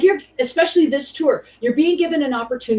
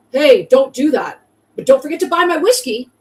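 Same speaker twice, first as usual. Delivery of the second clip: mocking preachy advice; 3 semitones higher, 4 dB louder than usual. Mocks James preaching in rehabs.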